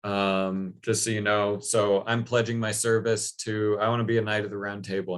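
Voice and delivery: barge in boasting to the whole court; bold announcement. Retold or imitated. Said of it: "barges in and is like".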